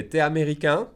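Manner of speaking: "T'es" said as a single syllable "te"; casual spoken contraction; fast contracted. Shown as a demonstration. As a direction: drop the U, say it quickly. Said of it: "So I would say".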